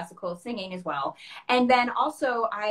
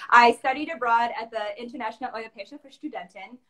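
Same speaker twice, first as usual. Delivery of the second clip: German accent; 5 dB louder than usual. Real, not acted. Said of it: "Apologies for my German accent".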